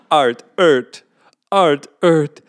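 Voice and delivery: put-on French Canadian accent, building to loud and slow. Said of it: "Your French Canadian accent is appalling".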